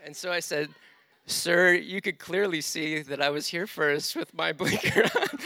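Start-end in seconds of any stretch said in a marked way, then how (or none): 1.3-5.4 mock polite explanation. Mock polite re-explaining to angry driver.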